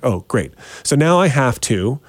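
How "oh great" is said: low, deadpan sarcastic reaction; unimpressed. Retold or imitated. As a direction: say it lower, with dry resignation. Grumbling at snow on windshield.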